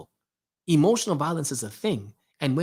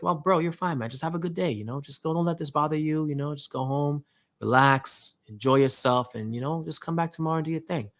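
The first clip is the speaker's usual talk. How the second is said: nice and calm. Retold or imitated. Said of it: "Just talking to him nice and calm".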